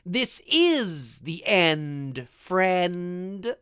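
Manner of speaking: IS and END stretched out very slowly; drawn-out, heavily emphasized line reading; emphatic movie quote. Retold or imitated. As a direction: lean hard on "is", "end" and "friend". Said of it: "I love the emphasis".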